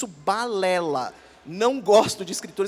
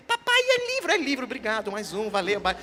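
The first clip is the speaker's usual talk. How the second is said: imitating a three-year-old, a touch of a child's voice; little girl voice. Voicing little daughter's words.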